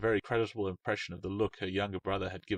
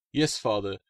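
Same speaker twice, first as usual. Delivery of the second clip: promising daughter; 4 semitones higher, 6 dB louder than usual. Acted. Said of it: "she promised".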